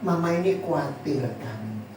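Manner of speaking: hushed anxious mother at night; worried mother. Retold or imitated. Mother tells daughter her fears, low and soft. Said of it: "sang mama bilang begini".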